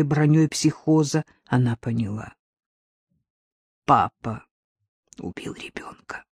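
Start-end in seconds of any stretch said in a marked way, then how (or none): 3.9-6.2 a soft broken whisper; stiff-lipped whisper. Acted. Jillian realizing the truth, a stunned whisper. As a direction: barely get the words out. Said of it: "выговорила она непослушными губами".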